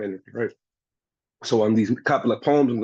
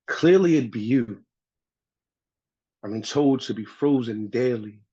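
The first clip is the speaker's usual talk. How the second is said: measured poetry recital with pauses between lines; spoken-word poem; slower than usual. Acted. Poet shares a piece on winter as a woman, spoken-word recital. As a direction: recite it phrase by phrase, leaving space after each.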